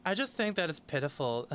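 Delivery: lightly voiced Valley Girl, mocking; a hint of mock Valley Girl. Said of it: "read this in a Valley Girl voice".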